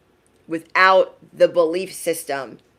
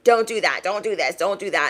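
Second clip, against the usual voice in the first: imitating mom; 2 semitones higher than usual. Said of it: "I sound like my mom".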